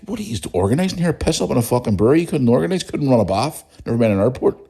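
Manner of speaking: retold scornful rant. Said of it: "I was like".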